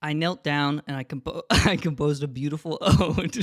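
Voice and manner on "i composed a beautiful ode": laughing. Real, not acted. Laughs mid line.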